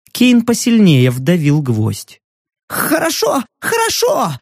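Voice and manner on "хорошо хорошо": much higher, squealing in panic; frightened squeal. Acted. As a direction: squeal it out, terrified. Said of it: "взвизгнул журналист".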